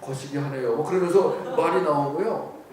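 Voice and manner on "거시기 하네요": lightly voiced navigation voice in Jeolla dialect. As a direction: say it like a low-pitched Jeolla-dialect sat-nav. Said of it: "전라도 버전은요, 전라도 말로 나와요".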